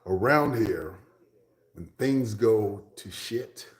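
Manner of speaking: imitated Norwegian-accented English, loud and stretched out. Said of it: "their accent when they're speaking English".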